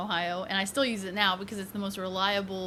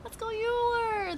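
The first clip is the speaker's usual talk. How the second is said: higher and higher hype shout-outs; rising cheer; 12 semitones higher than usual. Real, not acted. Streamer hyping chat members by name, rising excitement.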